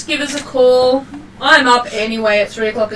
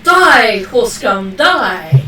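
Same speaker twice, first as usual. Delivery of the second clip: louder hammed-up brigand shout; mock battle cry; 3 dB louder, much slower than usual. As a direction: bark it like a bandit.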